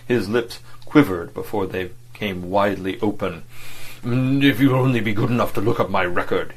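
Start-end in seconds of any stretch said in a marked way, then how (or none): 4.0-6.5 a booming oratorical voice; big public-meeting voice; booming orator's bass. Acted. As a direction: boom it out like a speaker at a rally. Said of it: "boomed out in his great, clear, oratorical bass".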